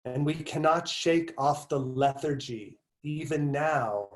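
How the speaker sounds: slow, measured recitation with pauses between phrases; essay reading. Acted. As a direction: read the passage out deliberately, stretching key words. Resumes reading the passage.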